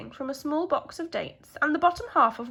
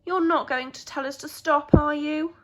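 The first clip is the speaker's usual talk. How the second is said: worried mice; 4 semitones higher, 7 dB louder than usual. Acted. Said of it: "they looked worried".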